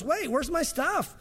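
high, slow, distraught wail of loss; a robbed man crying out for his idols; Micah's frantic cry. Retold or imitated. Micah finds his idols gone, distraught wail. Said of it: "Micah comes home and goes".

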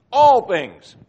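All things called out loud and high, all hit hard; exclaimed. Shown as a demonstration. Preacher making Paul's exclamation point heard, loud and high. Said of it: "like the exclamation point".

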